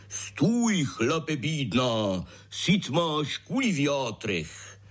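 slow, high-pitched robber shout with a drawn-out threat; robber's fat-voiced shout. A narrator's reading. Robber stopping the family in the woods, slow bellow. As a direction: bellow the highwayman's halt slowly. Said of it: "křikl tučným hlasem".

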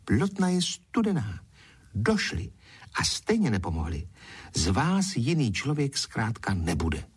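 mildly snappish refusal; short, stern dismissal; curt retort. Acted. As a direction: snap back, refusing him outright. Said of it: "Zuzka odsekla".

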